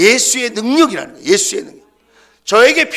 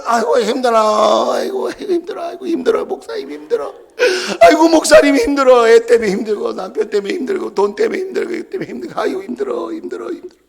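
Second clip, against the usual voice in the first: hammed-up groaning sigh, high and with a laugh; mock whining complainer; 5 semitones higher, faster than usual. Pastor mimicking tired believers complaining to him, mock whining. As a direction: moan like a worn-out churchgoer, half laughing. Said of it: "우리는 조금만 하면".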